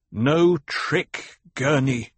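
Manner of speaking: high, loud plea tinged with sorrow; terrible sadness. A narrator's reading. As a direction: insist with a touch of sadness. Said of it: "note of terrible sadness".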